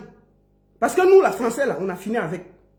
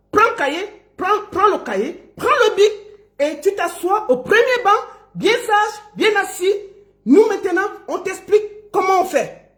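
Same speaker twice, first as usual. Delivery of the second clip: higher-pitched classroom orders; mock schoolteacher; 5 semitones higher than usual. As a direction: lightly play the teacher settling a pupil. Plays teacher seating a pupil.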